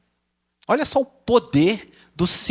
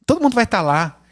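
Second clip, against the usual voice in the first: put-on pleading kid; 6 semitones higher, 3 dB louder than usual. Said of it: "E aí você fala".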